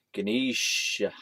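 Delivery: "Ganesha" slow, as guh-NEE-shuh; drawn-out Ganesha. Shown as a demonstration. Showing the extra syllables, "Ganesha" slowly as guh-NEE-shuh. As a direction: stretch the middle of "Ganesha" to EE. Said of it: "adding extra syllables for me to say".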